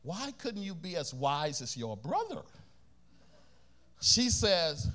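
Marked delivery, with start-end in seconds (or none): 0.0-2.4 gentle rebuke. Retold or imitated. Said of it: "My grandmother nicely".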